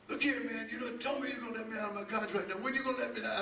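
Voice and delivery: amused impression of a singer demanding release; the singer's voice. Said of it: "and he talked like this".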